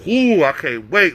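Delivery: drawn-out mock pouting threat; slow, hammed-up childish fuming; mad little kid. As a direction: imitate a sulking kid, slowly. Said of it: "like a stupid ass little kid that's just mad as hell".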